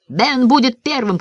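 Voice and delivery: high, excited announcement; a mild storyteller's cry; called out. A narrator's reading. Boy naming Ben as first to fly, excited call. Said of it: "крикнул я".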